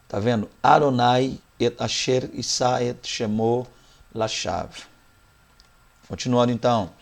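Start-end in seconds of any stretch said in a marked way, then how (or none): 0.6-4.7 slow Hebrew recital of Adonai et asher isa et shemo lashav; Hebrew reading. Shown as a demonstration. Teacher closing the lesson with the Hebrew verse, slow recital. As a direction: recite the Hebrew, stretching every word. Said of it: "só umas vezes pra fechar isso aqui".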